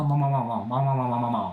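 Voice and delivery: rapid repeated "mao" sounds; playful cat noises, dropping at the end; mock meowing. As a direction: babble a run of silly meows. Mock Chinese meows for a viewer.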